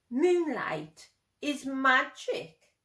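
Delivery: slow, awed delivery; hushed wonder. Acted. Cat showing Plop the moonlit town, slow and awed. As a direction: let the magic hang.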